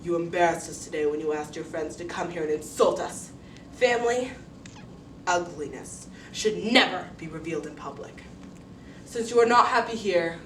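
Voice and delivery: weighty rebuke with loud stressed openings; stern father. Acted. Father rebuking daughter for insulting family, stern. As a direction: lay down the verdict firmly.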